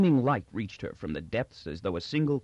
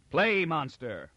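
a slow, higher mock roar; roared command; 5 semitones higher, slower than usual. The prince orders Magnifico to play, roaring slowly. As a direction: drag out the roar at the clown. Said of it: "roared the prince".

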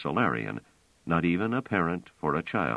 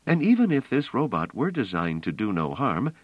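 higher-pitched, insistent story voice; earnest, raised-pitch character dialogue; earnest woman character, urgent; 8 semitones higher than usual. A narrator's reading.

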